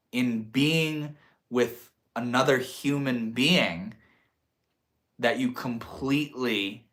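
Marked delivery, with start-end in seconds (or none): 5.5-6.9 COMPLETELY leaned on, set apart; completely drawn out for emphasis; stress on completely. Real, not acted. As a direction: lean deliberately on the word completely. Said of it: "emphasis on completely".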